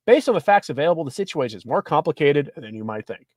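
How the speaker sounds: lively, articulated article read; reading an article aloud. Acted. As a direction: read the report out to listeners. Reads news article aloud.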